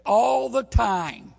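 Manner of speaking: slow, loud shouted response; high, loud call-and-response. Retold or imitated. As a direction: answer back like a congregation. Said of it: "And she said".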